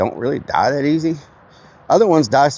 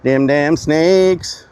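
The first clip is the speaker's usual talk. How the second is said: mock dread; 5 semitones higher, much slower than usual. Mock fearful drawl at snakes.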